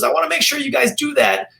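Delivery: put-on high-pitched eighty-year-old Jewish New Yorker; Jewish accent. Elderly woman describes old therapies to chiropractor, Jewish accent. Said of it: "how's my eighty-year-old Jewish accent?".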